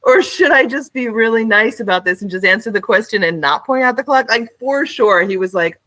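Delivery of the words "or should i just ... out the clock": clerk's inner voice. Retold or imitated. Imagining the clerk's inner thoughts.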